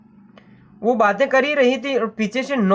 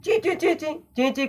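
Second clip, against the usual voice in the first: light chirpy bird cheeps, a bit higher; mock bird twitter; bird chirping; 7 semitones higher, 5 dB quieter than usual. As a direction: chirp it like a frightened little bird. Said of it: "चिचियाना यानी चिड़िया की चहचहाट की आवाज़ है".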